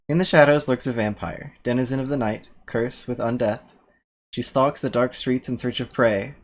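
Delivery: ominous movie trailer read; horror trailer voice. Acted. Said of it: "tone down the voices for you".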